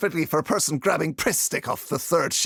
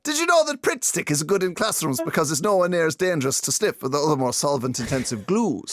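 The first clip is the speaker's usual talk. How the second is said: nervous rambling; faster than usual. Acted. Nervous boy rambling to crush.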